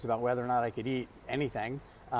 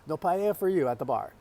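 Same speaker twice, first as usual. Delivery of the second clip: higher, louder catchphrase impression; mock stern refusal; 5 semitones higher, 5 dB louder than usual. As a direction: refuse like a comic food-counter tyrant. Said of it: "It's like, "No soup for you".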